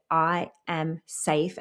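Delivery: slow, calm, spoken to yourself; calm affirmation. Shown as a demonstration. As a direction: say it slowly like a promise to yourself. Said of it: "you just need to say".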